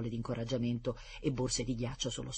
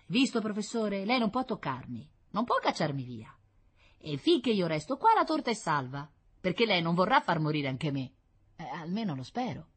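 put-on defiant boy; 5 semitones higher, 3 dB louder than usual. Boy's voice, defiant.

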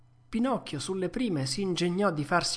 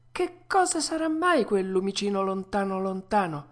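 put-on raised young puppet voice; high curious question; wondering puppet; 5 semitones higher, 3 dB louder than usual. Puppet asks about a faint distant glimmer, high wondering voice.

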